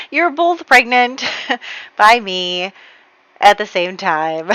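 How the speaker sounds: laughing through an awkward confession; sheepish giggling admission. Retold or imitated. Husband telling wife and mistress, laughing. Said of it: "Thomas is gonna be like".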